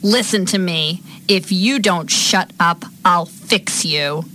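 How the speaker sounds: slow, high, pointed threat; really mean. Acted. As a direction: draw the threat out with open meanness. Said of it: "now you're really mean".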